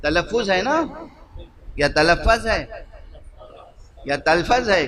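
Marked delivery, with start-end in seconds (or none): 1.9-2.6 تلفظ said as ta-la-faz, with an A in the last syllable; variant pronunciation. Shown as a demonstration. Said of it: "کیا ہے؟". 4.3-4.9 تلفظ squeezed into two syllables, tal-faz; variant pronunciation. Shown as a demonstration. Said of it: "کیا ہے؟".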